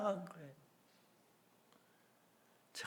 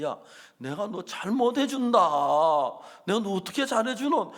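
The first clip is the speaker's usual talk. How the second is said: a louder, earnest rebuke; firm pleading; 6 semitones higher, 9 dB louder than usual. Retold or imitated. Pastor repeating his plea to the brother, louder. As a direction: push hard but mean it kindly. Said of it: "근데".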